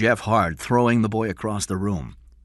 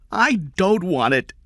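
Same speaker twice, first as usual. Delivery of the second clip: higher, slow, a mild mock scream; 13 semitones higher, 7 dB louder than usual. A narrator's reading. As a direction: push back, rising, not full volume. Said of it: "Kathy screamed".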